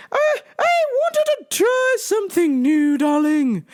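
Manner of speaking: hammed-up high, placating mom; mom impression. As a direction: put on a high sing-song voice for mom. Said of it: "She's like".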